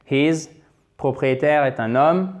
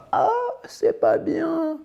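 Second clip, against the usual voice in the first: much higher, slow, prissy scold; mock disapproving teacher; slower than usual. Teacher mocking a scolding tone, high and slow. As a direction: wag a finger in a falsetto, slowly. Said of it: "je suis pas là pour vous dire".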